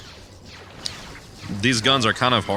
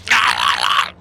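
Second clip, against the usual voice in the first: loud low short grunts, mimicking game enemies; mock dying grunts; 9 semitones lower, 5 dB louder than usual. Mocking the stupid noises of dying soldiers, loud low grunts. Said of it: "they're like".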